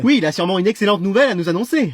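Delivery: ordinary talk, nothing marked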